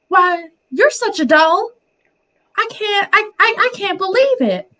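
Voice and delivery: very high, dramatic Southern belle. Retold or imitated. Niece imitating her aunt's speech, high Southern belle. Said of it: "where I pretty much got my Southern Belle thing from".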